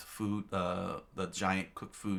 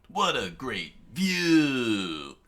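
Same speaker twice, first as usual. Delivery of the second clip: excited exclaim; 4 semitones higher, 6 dB louder, much slower than usual. Acted. Luffy exclaims atop dinosaur.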